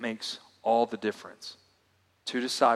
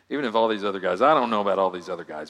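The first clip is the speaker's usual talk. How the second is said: brushing off the others fast through a laugh; laughing mock insistence; 3 semitones lower, 5 dB louder, faster than usual. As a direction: rattle it off, chuckling, half-mocking Peter's bravado. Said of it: "so emphatic, so insistent".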